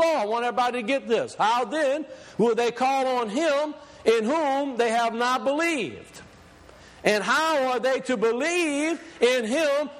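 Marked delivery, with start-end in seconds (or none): 1.4-9.9 slow, deliberate scripture reading. Shown as a demonstration. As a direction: give each word weight, slowly. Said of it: "I'm gonna read this very slow".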